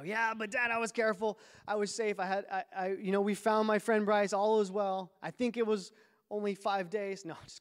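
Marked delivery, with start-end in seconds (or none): 0.0-5.1 put-on protesting kid. Boy arguing back at dad.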